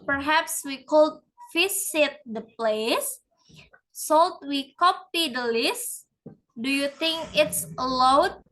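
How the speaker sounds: "place", "list" and "allowed" dip, then lift upward; fall-rise intonation. Shown as a demonstration. Teacher demonstrating an incomplete thought, fall-rise on "place", "list", "allowed". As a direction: let "place", "list" and "allowed" swing up, as if unfinished. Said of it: "examples of false rise intonation".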